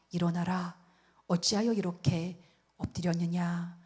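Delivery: low, slow and gentle voice of God; softened, relenting. Acted. God to prostrate Joshua after his anger has eased, softened. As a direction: speak gently down to someone lying prostrate. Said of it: "하나님 마음이 굉장히 풀어지셨죠".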